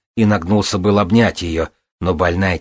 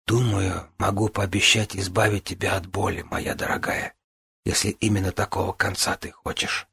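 gentle; 2 semitones higher, 6 dB quieter than usual. Acted. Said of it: "мягко проговорила".

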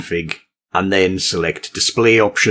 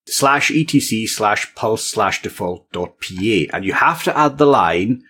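dictating; slower than usual. Shown as a demonstration. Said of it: "I'm not really expecting you to follow along".

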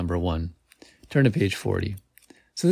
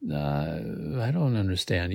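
stammering; 3 semitones lower, 5 dB quieter than usual. A narrator's reading. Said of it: "you stammer".

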